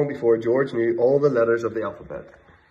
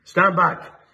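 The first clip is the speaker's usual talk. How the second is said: higher, louder gruff warning; roaring chief; 8 semitones higher, 6 dB louder than usual. Acted. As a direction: roar the warning. Chief ordering crowd.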